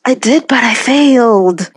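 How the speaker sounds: laughing while admitting. Real, not acted. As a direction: say it through a laugh.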